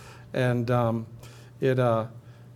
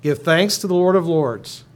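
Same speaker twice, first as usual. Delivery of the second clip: louder, higher call to the congregation; cantor's call; 4 semitones higher, 6 dB louder than usual. Pretend. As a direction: lead a responsive reading, projecting. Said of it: "I'm the cantor".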